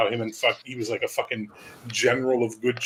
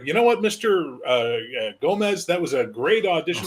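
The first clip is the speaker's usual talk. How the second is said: brightly pitched up, friendly studio exec; casting director voice; 4 semitones higher than usual. Retold or imitated. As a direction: gush like a casting agent. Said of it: "We'd be like".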